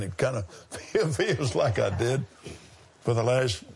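rough, sandy throat; hoarse voice. Real, not acted. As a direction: talk through a scratchy throat. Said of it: "sounds like I swallowed a bunch of sand".

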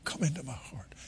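said softly, a hushed prayer; quietly ask, barely above a murmur. Retold or imitated. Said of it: "And I just said it quietly".

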